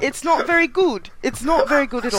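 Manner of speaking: poor mock British accent. Shown as a demonstration. Host admitting the demo is poor, in a put-on British accent. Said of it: "here's my British accent".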